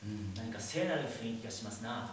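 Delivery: light Kansai dialect impression; a hint of a Kansai dialect. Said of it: "関西弁、まあ、混じりというか、訛りの言葉で". (控えめな関西弁のまね)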